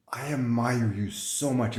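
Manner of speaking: slow, lightly awed "so much"; a hint of starry-eyed friend; mock awestruck admirer. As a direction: gaze up at a guru, gently. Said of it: "she looked at me like people look at gurus".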